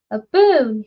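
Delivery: put-on loud bellow of a drunk man; roared. Drunk woodcutter roars at visitor, loud bellow. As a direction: roar it out at the stranger. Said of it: "he roared".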